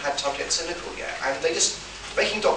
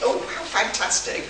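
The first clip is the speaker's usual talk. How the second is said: higher, slow, breathy-laughing mock rapture; mock gushing delight; 9 semitones higher, slower than usual. Welsh receptionist hears about the meeting, mock delighted. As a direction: ham up the thrilled receptionist. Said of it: "I'm here for a meeting".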